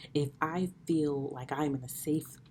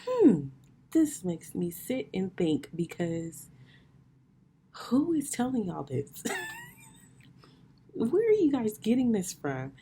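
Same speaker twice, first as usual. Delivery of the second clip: mock puzzled disbelief; 8 semitones higher, 4 dB louder than usual. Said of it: "and I was just like".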